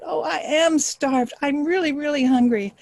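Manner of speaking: acted famished beggar's complaint; starving beggar. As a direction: stretch out the hunger pitifully. Beggar moans about starving.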